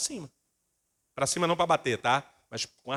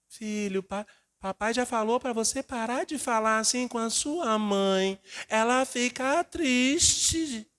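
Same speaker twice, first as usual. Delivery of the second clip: higher, sugary weak father voice; 6 semitones higher, slower than usual. Retold or imitated. Pastor mocking a timid father pleading with his son. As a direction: parody a too-gentle dad.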